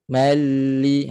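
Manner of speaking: MALI with a continuous doubled L; flowing lam. Shown as a demonstration. Teacher repeats for students, flowing lam. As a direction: let the L in mali run on. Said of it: "Ha, mengalir".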